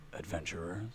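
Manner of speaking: hushed, solemn call to the gathered crowd; really quiet. Acted. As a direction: speak very softly, as an ancient stone figure. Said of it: "he says really quietly".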